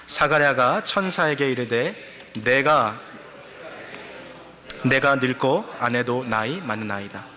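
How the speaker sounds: slow, measured verse reading; congregational scripture reading. Acted. Pastor leading the congregation through Luke, measured reading. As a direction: lead the verse aloud at a slow, even pace.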